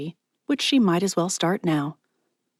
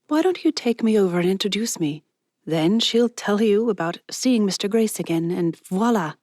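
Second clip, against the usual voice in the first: lightly higher, eager friend voice; Ezra, eager; 3 semitones higher than usual. Acted. Ezra coaxing Mallory into the scheme, eager. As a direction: pitch the plan with a grin.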